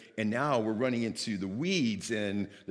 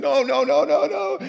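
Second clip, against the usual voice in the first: very high, loud string of yelps; mock panicked protest; 12 dB louder than usual. Friends pulled into a freezing waterfall, acted shrieking protest. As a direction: imitate someone squealing as they get dragged.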